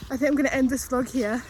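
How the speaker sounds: gasping between phrases, winded; out of breath. Real, not acted. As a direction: push the words out while still panting. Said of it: "Sorry, I'm so out of breath".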